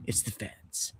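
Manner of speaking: slow, hushed whisper; conspiratorial whisper. Real, not acted. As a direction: lean in and breathe it like a secret. Repeated hushed accusation.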